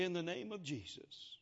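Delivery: a touch of gentleness in the prayer; lightly gentle healing prayer. Retold or imitated. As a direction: say the name softly and gently. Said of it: "I just very gently said".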